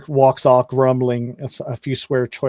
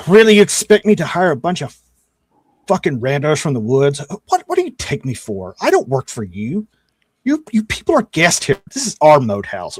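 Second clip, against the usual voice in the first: irritated cleric rant. Acted. GM voicing the cleric scolding the adventurers, irritated. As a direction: sneer at the ragtag party. GM voices angry cleric NPC.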